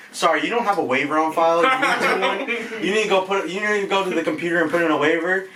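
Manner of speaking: syrupy politeness then a jab; fake polite front desk. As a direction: receptionist voice with a laugh in it. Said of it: "And I'm like".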